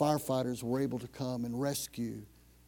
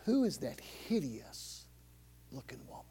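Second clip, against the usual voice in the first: low voice; 3 semitones lower, 6 dB quieter than usual. Acted. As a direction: murmur it low so she won't hear. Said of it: "he said in a, in a low voice".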